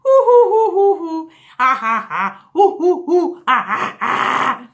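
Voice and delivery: high, loud hoo hoo and ha ha; faked laughter. Shown as a demonstration. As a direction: push the laugh out until it turns real. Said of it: "fake it till you make it".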